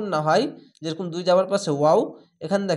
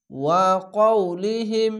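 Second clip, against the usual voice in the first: slow recited blend; much slower than usual. Shown as a demonstration. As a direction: join the syllables into one slow recited word. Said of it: "হা মিম জের হিম".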